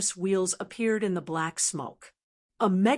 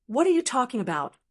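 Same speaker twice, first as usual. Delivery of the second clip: angry; 3 semitones higher, faster than usual. Acted. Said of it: "the demon god said angrily".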